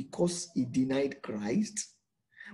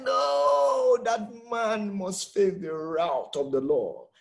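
outraged verdict; 4 semitones higher, 4 dB louder, slower than usual. Acted. David condemns the rich man.

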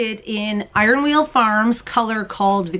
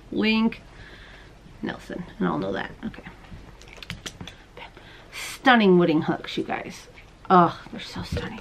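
whisper; 2 semitones lower, 6 dB quieter than usual. Real, not acted. Whispered notes and aside.

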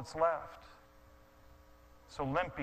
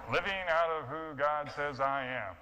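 sarcastic reread. Shown as a demonstration. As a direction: repeat the words "Living out of who God says I am" with a scoffing edge.

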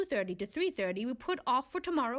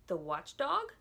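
quizzical; 2 semitones lower, slower than usual. Acted. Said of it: "said Milo quizzically".

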